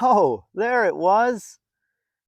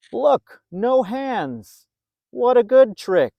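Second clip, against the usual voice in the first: higher and louder, proud and delighted; excited showing off; 5 semitones higher, 4 dB louder, slower than usual. A narrator's reading. Narrator voicing George showing his trick, excited. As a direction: call out the trick like a thrilled kid.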